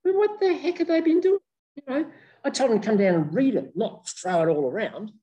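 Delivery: a high, huffy rabbit; indignant rabbit. Acted. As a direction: scold the absent guests.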